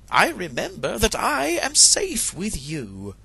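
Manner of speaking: calm her husband down; a hint of a tender hen; soothing hen wife. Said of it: "tried to calm Chanticleer".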